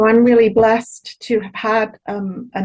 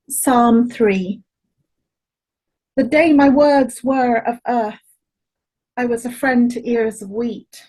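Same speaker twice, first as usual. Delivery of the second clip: measured poetry reading with long pauses; poem reading. Acted. Poet opening an event with a translated psalm, measured recital. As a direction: lift each opening phrase, then let the line settle.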